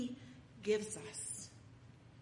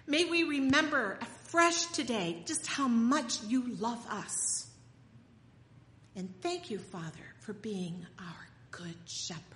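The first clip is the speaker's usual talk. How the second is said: closing prayer over the congregation; earnest prayer; 2 semitones higher than usual. Acted. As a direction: pray it gently, rising on the pleas.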